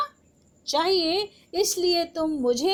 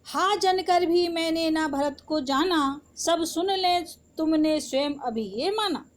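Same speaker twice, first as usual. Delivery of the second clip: measured, sing-song reading of Hindi verse; poem recitation. Acted. Teacher recites Saket verse. (कविता पाठ की लय में)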